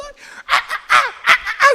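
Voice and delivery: very high, laughing screams; mock fan screams. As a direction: scream along like a crowd of fans, laughing. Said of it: "같이 노래하면서".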